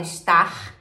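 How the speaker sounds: "Star" first guttural, then English; contrasting R sounds. Shown as a demonstration. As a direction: show "Star" with Brazilian and American R. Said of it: "Que a gente fala".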